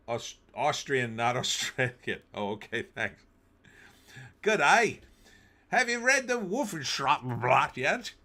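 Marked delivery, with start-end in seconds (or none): 4.4-8.1 high, loud mock German-accented question. Streamer hamming a mock German newspaper name, high and loud. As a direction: ham up a silly German accent, higher.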